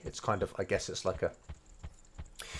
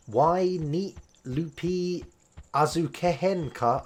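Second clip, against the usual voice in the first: reading shopkeeper line; 7 semitones higher, slower than usual. Pretend. Reading Japanese game line aloud.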